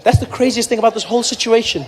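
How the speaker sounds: ordinary talk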